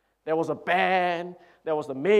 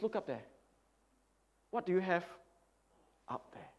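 soft, much quieter question; quiet pastor; 8 dB quieter, faster than usual. Acted. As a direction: lean in and ask it gently.

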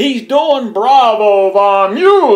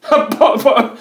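mock amusement; 3 semitones higher, 4 dB louder than usual. Real, not acted. Mocking Bravo, laughing at him.

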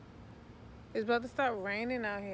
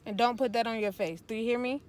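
angry dressing down; 6 dB louder than usual. Real, not acted. Mother keeps scolding.

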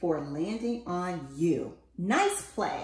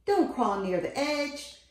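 high, loud warning yell; 6 semitones higher, 4 dB louder than usual. A narrator's reading. Parent yelling at babies near the ledge, loud and high. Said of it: "you yelled".

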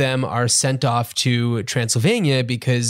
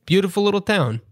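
Rudy DeLuca; 3 semitones higher, faster than usual. Acted. Podcast host imitating a director on the movie's commentary, light impression. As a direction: lightly mimic a comedian pitching his movie. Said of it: "he talks like this".

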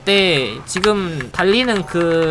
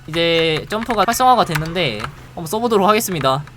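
ordinary talk, nothing marked

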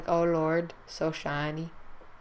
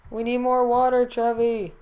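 louder robotic command voice; 5 semitones higher, 3 dB louder than usual. Acted. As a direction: order it like a robot. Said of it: "Nice robot voice".

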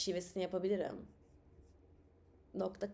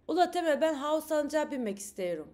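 a louder, higher Black Sea wife pleading to ride; Black Sea accent calling out; 6 semitones higher, 4 dB louder than usual. Acted. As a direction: call to Temel eagerly in a Black Sea accent. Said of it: "O zaman şiveli yapayım". (Temel'e seslenen Karadenizli Fadime, yüksek sesle)

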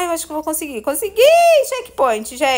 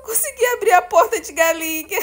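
laughing; 5 semitones higher than usual. Real, not acted. Laughing at chicken opening door.

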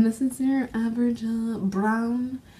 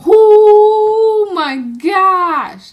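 gasping with delight; 10 semitones higher, 13 dB louder, much slower than usual. Real, not acted. Unboxing a new palette, gasping.

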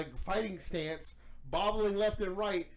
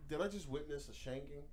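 stunned inner thought; 5 semitones lower, 9 dB quieter than usual. Retold or imitated.

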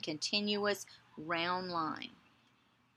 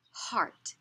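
whispered model. Shown as a demonstration. Teacher whispering the word for a child to repeat. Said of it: "You say it".

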